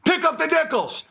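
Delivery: high cackle then taunting orders; mocking laugh. The bosses laughing at the bear, high mocking cackle. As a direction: laugh down at him and bark orders. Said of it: "they'll just dying laughing".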